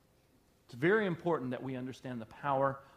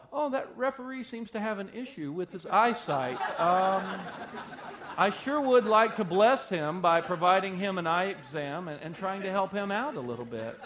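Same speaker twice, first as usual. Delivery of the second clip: mock polite fan, laughing; 4 semitones higher, 4 dB louder than usual. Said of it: "when you're watching football".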